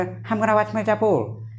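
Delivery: lightly imitated American English; American accent. Teacher showing how an American says it, mock American accent. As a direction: say it like an American, drawn out. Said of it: "American बोला".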